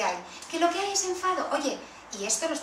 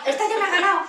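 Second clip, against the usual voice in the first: higher and louder "Esta ya me ha ganado" with real amusement; amused repeat; 6 semitones higher, 7 dB louder, faster than usual. Real, not acted. Teacher repeats that the mother won her over, higher and louder.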